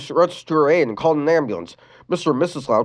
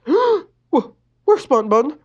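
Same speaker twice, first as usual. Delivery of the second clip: startled gasp; 13 semitones higher, 5 dB louder, much slower than usual. A narrator's reading. Boy finds his toy gone.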